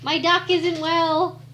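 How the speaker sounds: man down shout. Pretend. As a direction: shout for a medic in mock alarm. Calls for medic after being shot.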